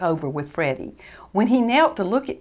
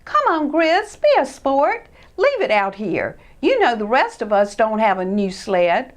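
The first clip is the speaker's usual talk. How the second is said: put-on higher, louder pushy kid voice; Sid urging; 4 semitones higher, 4 dB louder than usual. Sid urging Chris to leave the sled. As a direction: push him to be a sport.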